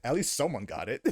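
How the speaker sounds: chuckling through the quote; laughing. Retold or imitated. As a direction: read it out while laughing. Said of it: "He replied back saying".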